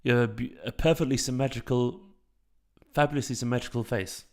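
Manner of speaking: mock-posh English, slightly hammed up; posh accent. Shown as a demonstration. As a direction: attempt a refined posh accent. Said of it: "Sound like James May".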